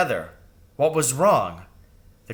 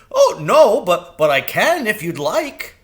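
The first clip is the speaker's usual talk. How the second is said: very high, loud, keen bird voice; eager crow; 9 semitones higher, 8 dB louder than usual. A narrator's reading. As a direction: offer it eagerly, tripping over words. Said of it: "Jeremy said cheerfully".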